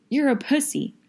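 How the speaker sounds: high, loud sneer; shouted insult. Acted. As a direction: spit the insult upward. Friend quarrel, insults.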